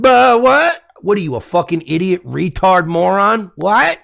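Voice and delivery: high, flustered guilty denial; deer in headlights. Retold or imitated. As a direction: play caught and panicking. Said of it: "deer in headlight".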